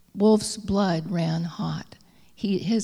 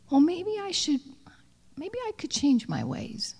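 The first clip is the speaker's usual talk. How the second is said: a wolf wondering aloud, higher and hopeful; hopeful musing; 10 semitones higher than usual. Acted. Wolf thinking to himself, hopeful and high.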